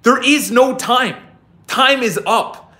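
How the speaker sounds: slow, emphatic coach-style quote; imitating David Goggins. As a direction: hammer it home like a tough coach. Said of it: "he said".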